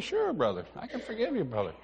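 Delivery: soft, soothing pastor's reply; hushed mild absolution; gentle forgiveness. Retold or imitated. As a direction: quietly reassure a weeping brother.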